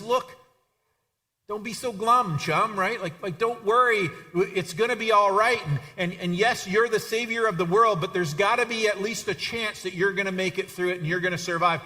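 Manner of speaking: earnest, pushy encouragement; urging reassurance. Acted. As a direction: buck up a gloomy friend, voice lifted. Acted Peter cheering up Jesus.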